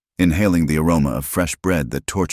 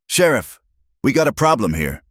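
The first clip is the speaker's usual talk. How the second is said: shrill cry; 9 semitones higher than usual. A narrator's reading. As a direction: call out shrilly for help. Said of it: "Muller's shrill cry".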